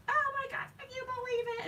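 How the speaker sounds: very high-pitched giddy squeal; excited scream. Retold or imitated. Crafter re-enacts telling her husband the news, excited squeal. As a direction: squeal like jumping up and down. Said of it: "jump up and down and scream".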